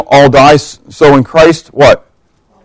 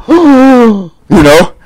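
a sharp mock gasp of shock; 7 semitones higher than usual. Disciples seeing Jesus behind Thomas, gasping.

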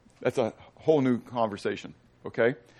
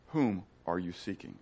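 soft Jesus line; 6 semitones lower, 11 dB quieter than usual. Acted. Preacher voices Jesus, softly.

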